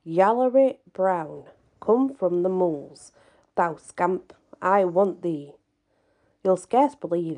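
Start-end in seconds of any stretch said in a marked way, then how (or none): 0.1-5.5 calling out. Acted. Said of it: "called out as loud as I could".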